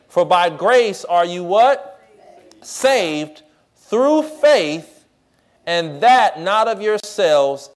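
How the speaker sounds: slow, drawn-out verse reading; slow scripture reading. Acted. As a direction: read each phrase slowly, with weight.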